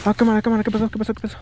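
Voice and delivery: sudden loud alarmed voice; alarmed shout. Real, not acted. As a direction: call out in a fright. Something happens, partner's camera.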